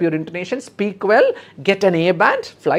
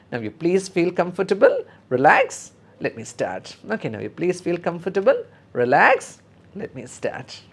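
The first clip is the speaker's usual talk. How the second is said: reassuring nurse; 3 semitones higher than usual. Shown as a demonstration.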